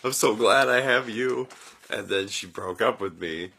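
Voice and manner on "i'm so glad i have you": high, louder, put-on self-pity; telling the girlfriend, hammed-up pitiful whine; mock pitiful self. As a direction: whine it like a fake victim. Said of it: "I'm like".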